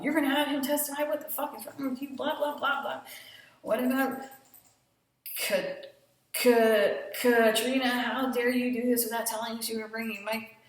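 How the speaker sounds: hammed-up outburst of outrage; mock angry rant. Mike retelling his rant at Faye, mock angry.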